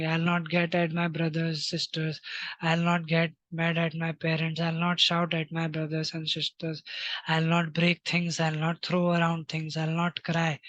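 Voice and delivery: slow, deliberate self-talk, word by word; slow affirmation. Shown as a demonstration. Teacher modelling I-statements for children, slow and deliberate. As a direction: recite each promise slowly and firmly. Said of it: "यही चीजें अपने आप को बोलनी है".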